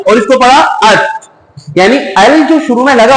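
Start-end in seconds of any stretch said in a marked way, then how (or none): 0.6-1.0 "ات" with no L, straight into the t; lam left silent. Shown as a demonstration. Teacher contrasts it with "ال", lam silent in "ات". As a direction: skip the L and join directly onto the t in "ات". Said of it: "نہیں نکالتے، بلکہ آپ کو direct".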